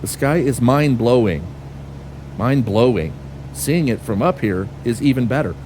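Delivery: lightly mimicked text-to-speech emphasis; mocking robotic stressing. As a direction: parrot the AI passenger's clumsy word stress, slowed. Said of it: "Why are you stressing your words like that?".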